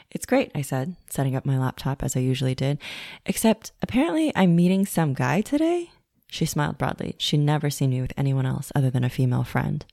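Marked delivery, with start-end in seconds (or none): 0.1-5.9 excited. Retold or imitated. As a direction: tell the barista the news with a nervous thrill. Excited chat with barista.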